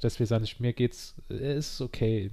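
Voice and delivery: blocked nose, talking through congestion; nasal cold voice, nose blocked; stuffy nose. Real, not acted. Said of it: "Man hört, dass ich verschnupft bin, meine Nase ist zu".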